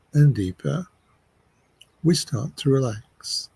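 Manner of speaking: unhurried meditation voice, long pauses; measured phrases with space to breathe; guided meditation. Acted. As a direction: guide them gently into relaxing.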